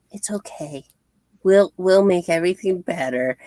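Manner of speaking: lightly acted gentle reassurance; mock comforting. Retells Carol comforting upset Lori.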